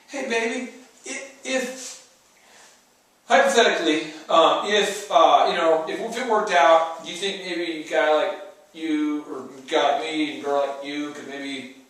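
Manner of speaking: hesitant, stammering, unsure of himself; mock a nervous guy fumbling a proposal; man timidly proposing to his girlfriend, mock-nervous. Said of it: "that's not how you propose".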